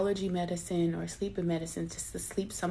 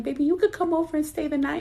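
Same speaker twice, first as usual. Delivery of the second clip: imitating mom; 9 semitones higher, 4 dB louder, faster than usual. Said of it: "My mom was like".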